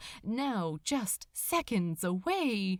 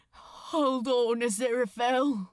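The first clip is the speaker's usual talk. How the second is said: raised, urgent plea to hold on; urgent call; 3 dB louder than usual. Acted. Crowley calling to the angel on the stern, urgent and loud. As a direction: cry out to him as the ship tips. Crowley clinging to sinking ship.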